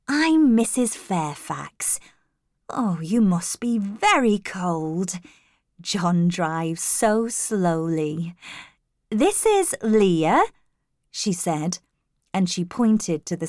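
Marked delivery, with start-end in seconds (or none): 0.1-10.5 a hint of a kind hostess, slow and unhurried; lightly voiced kindly older lady. Grey-haired housekeeper welcomes the cold traveller, lightly voiced and kind. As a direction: slowly fuss over a guest, lightly in role.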